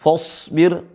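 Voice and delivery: "fasbir" said as "fosbir"; wrong thick fa. Shown as a demonstration. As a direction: round the first vowel of "fasbir" towards o. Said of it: "Bukan dibaca fasbir".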